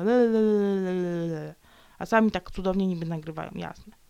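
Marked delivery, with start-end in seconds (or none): 0.0-1.5 long "le-le-le" jeer, falling away; mocking babble. Mocking listeners who grumble, falling le-le-le babble. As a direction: mimic whining with tongue-waggling babble. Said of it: "I potem marudzą".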